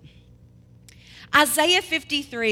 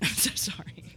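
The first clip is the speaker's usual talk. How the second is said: laughing apology; 7 semitones lower, 5 dB quieter than usual. Real, not acted. Helpless giggle while apologizing.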